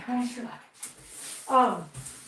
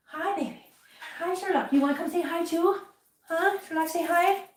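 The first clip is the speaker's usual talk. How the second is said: pet talk; 5 semitones higher than usual. Real, not acted. Owner greeting her cat Sherlock, cooing baby talk.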